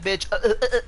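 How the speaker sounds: imitating her stammer, uh uh uh; mocking the rival's stutter. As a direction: stutter on purpose like she froze up. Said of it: "she kept stuttering".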